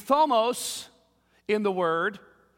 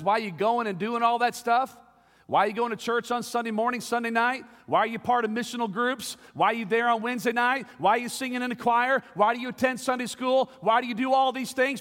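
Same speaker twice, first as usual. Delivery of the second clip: imagined questioner; 3 semitones higher, faster than usual. Retold or imitated. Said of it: "If somebody says".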